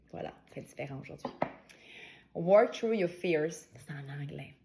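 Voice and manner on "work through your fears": English read slowly with a French Quebec accent; slow, careful English with a French accent. Real, not acted. Reading the card aloud in English, French accent. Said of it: "Alors, ça, c'est mon accent".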